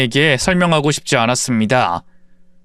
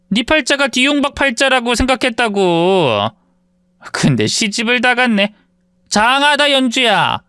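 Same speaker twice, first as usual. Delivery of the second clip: lightly voiced mean girl, a touch higher; mock pity with a sneer; condescending old classmate mocking the narrator; 6 semitones higher than usual.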